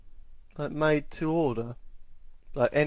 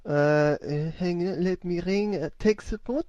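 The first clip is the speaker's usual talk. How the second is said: put-on French accent; 3 semitones higher than usual. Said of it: "I'm a French person".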